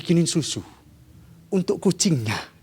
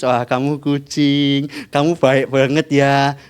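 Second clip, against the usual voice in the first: tender to the cat; 5 semitones lower, slower than usual. Acted. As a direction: coo lovingly at the cat. Grandmother strokes the cat. (nenek membelai kucing, lembut dan pelan)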